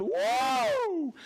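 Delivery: high loud whoop; excited woo. Real, not acted. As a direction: cheer just for the fun of it. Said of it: "God, I just like going".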